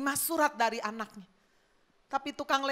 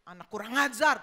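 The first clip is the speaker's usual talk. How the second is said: mock-angry father's outburst; indignant, acted scolding; 3 semitones higher than usual. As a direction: play an offended dad fuming. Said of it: "dia marah".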